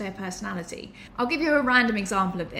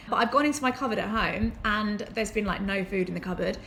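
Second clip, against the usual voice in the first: ordinary talk, nothing marked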